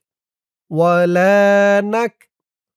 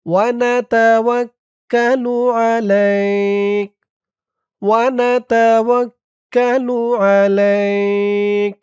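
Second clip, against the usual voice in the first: slow, long-drawn chanted Arabic; slow recitation; much slower than usual. Shown as a demonstration. Teacher modelling the verse for students, slowly chanted. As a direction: hold the vowels long and even. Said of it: "এখানে এক আলিফ টান হবে".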